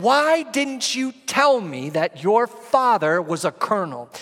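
retold angry sergeant. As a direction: replay the sergeant's angry outburst, slowed and pushed up. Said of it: "he started to get very angry with me".

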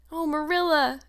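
high, delighted cry; exclamation. A narrator's reading. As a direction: gasp it out with joy. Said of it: "exclaimed Anne".

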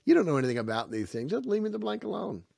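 put-on fed-up young man telling the old man off; mock annoyed outburst. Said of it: "Finally, the young guy says".

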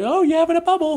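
chirpy hammed-up imitation of young Brits; mock British youth. Host imitates British twenty-somethings on the game show. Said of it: "we get".

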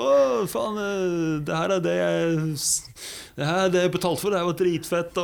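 høy, ivrig gjenfortalt jubel; begeistret. Retold or imitated. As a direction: spill den stokede rytteren som elsket løypa. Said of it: "han andre var sånn". (den stokede rytteren jubler etter etappen)

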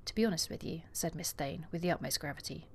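reading a novel aloud, voicing the lovers lightly; story narration. Podcaster reading the proposal scene to her co-host, story narration. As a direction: read the scene aloud like an audiobook.

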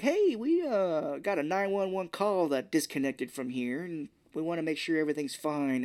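friendly officer checking in at the door; mock polite cop. Cops at the door.

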